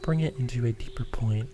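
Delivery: unhurried meditation guide with long pauses; guided meditation. Acted. Host guiding listeners to ground through the breath, calm guided meditation. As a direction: lead listeners through each breath, leaving space between phrases.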